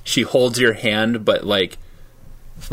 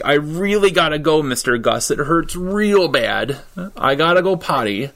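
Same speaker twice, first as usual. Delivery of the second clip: put-on a boy hamming up pain, slightly higher, dragging it out; fake pained voice; 5 semitones higher than usual. Boy begging the teacher to leave, mock pained whine. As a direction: overplay the tummy ache to get out of class. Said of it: "his best fake, um, pained voice".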